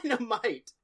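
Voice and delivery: high-pitched hammed-up holler; mock yelling. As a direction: imitate guys yelling, pitch way up. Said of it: "standing around a goat just yelling".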